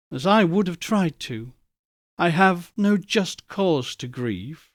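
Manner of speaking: a touch of quiet sorrow; gently resigned, slowing at the end; soft sorrow. Acted. Young girl releasing Scrooge, softly sad. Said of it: "she said softly".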